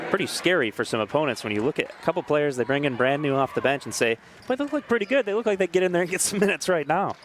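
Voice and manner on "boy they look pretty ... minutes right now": much higher, amazed gasp of awe; like a rival coach stunned; impressed exclamation. Retold or imitated. Imagined opponents amazed by newcomers.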